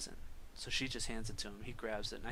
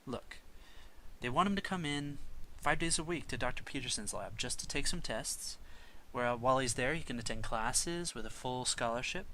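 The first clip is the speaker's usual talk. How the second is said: louder, higher, urging pitch, slowing on the big words; persuasive professor; 4 semitones higher, 4 dB louder than usual. Acted. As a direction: sell him the opportunity.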